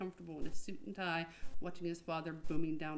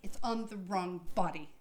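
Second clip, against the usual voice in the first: Chance defending himself. Acted. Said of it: "Chance wanted to make that known".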